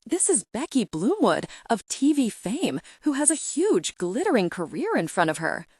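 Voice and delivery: dismayed pitch. Acted. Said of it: "Suze's voice rises in dismay".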